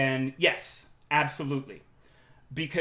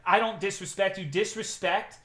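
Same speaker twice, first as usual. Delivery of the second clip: mock employee; 4 semitones higher than usual. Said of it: "one of the funniest things she says is".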